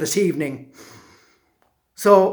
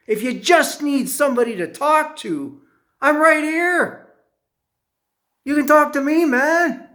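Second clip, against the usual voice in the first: higher-pitched, earnest talking-down; earnest reassurance; 5 semitones higher than usual. Retold or imitated. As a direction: reassure him in a raised, insistent pitch. Talking the knifeman out of it.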